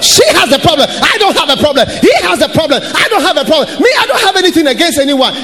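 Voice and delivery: high, fast, laughing mock whine; hammed-up finger-pointing; mocking blame-shifter. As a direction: lampoon a believer blaming others. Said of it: "most Christians say".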